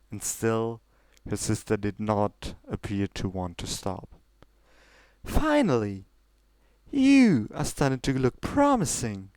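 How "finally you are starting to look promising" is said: cheering. Acted. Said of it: "Celestia cheered".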